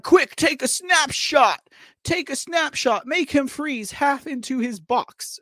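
hammed-up urgent command; mock urgent orders. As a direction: imitate a plotter giving urgent orders. Acting out saboteurs plotting a screen freeze.

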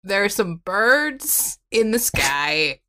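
slow, solemn poem reading; slow poem recital. Pretend. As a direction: recite it slowly like a grand poem. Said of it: "Take us away".

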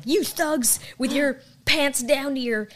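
put-on slow scolding old man in a Southern accent; mock Southern accent, disapproving elder. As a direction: lecture the kids in a drawn-out Southern accent. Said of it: "I gave him a Southern accent".

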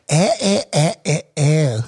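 every vowel flattened to "eh", Eagle Rock accent. Shown as a demonstration. Host teaching how the kids talk, Eagle Rock accent. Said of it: "It becomes".

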